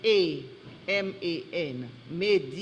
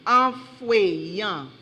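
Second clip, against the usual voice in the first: slow, clearly separated syllables; careful, drawn-out pronouncer delivery; slow correction; 3 dB louder, slower than usual. Real, not acted. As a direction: restate the word deliberately for the speller. You made an error.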